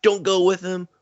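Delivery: high, put-on chirpy wife voices; mock the wives in a high voice; high-pitched hurried mock farewell; imitating the wives. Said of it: "And they're like".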